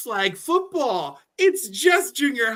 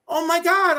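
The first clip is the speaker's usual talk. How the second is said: shocked gasp; 8 semitones higher, 5 dB louder than usual. Retold or imitated. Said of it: "and I'm like".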